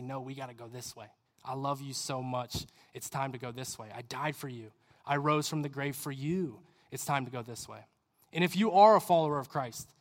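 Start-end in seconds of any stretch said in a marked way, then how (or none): 0.0-7.9 low, very soft, loving plea; tender appeal. Acted. Jesus tapping on your heart, tenderly pleading. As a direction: speak low and gently, straight to the heart.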